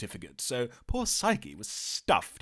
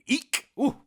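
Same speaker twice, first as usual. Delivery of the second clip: mock squeal; 13 semitones higher, 4 dB louder than usual. Mock fright at demon.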